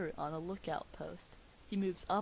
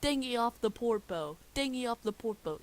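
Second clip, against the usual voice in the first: put-on pirate accent; 5 semitones higher, 4 dB louder than usual. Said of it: "my accent's pretty bad".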